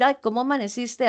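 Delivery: "Ay, ¿cómo amaneciste?" quick and lilting, rising on ay; sweet caring greeting, fast; fond greeting. Shown as a demonstration. Teacher demonstrates an affectionate greeting to students. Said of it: "es muy diferente decir".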